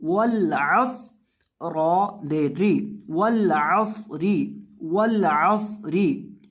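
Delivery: slow, with a whistled heavy saad in असरी; slow Quranic recitation. Shown as a demonstration. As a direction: recite it slowly, ain from the throat. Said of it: "सॉद के अंदर आपने सीटी की आवाज़ पैदा करनी है".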